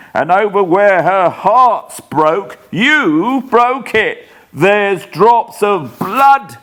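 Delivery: high and slow, dread building; slow horrified raving. Acted. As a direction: stare at the ghost and whisper-cry it out. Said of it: "shivering dreadful with the horrors".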